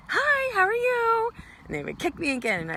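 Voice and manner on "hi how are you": high, loud, slow sing-song greeting; sweetly killing them with kindness; relentlessly cheery hello. Retold or imitated. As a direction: chirp it like nothing happened. Cheery greeting after being kicked down.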